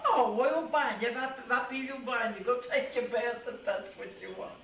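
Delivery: high, loud Italian mama getting it; Italian mother waving her off to the bath, high; relieved mother. Retold or imitated. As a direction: exclaim loudly once you understand. Mama finally understanding.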